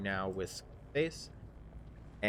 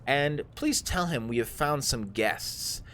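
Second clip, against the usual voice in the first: commanding drow; 2 semitones higher, 4 dB louder than usual. Acted. Drow hands the bugbear an errand, commanding. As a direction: instruct a henchman in a master's-servant voice.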